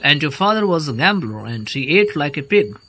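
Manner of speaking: loud, heated insult; angry shout. Acted. Chubukov firing insults at Lomov, shouting angrily. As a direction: throw it back at him full volume. Family quarrel, trading insults.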